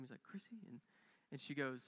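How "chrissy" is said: soft, higher-pitched questioning call; half-whispered name. Retold or imitated. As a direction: imitate a father tentatively whispering her name. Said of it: "he kinda whispered her name".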